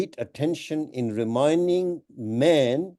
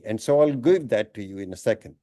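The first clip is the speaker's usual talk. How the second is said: usual speaking voice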